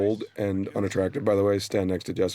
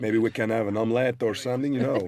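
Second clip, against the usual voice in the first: mock Quebec accent; 3 semitones higher than usual. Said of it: "I don't even know what that accent is".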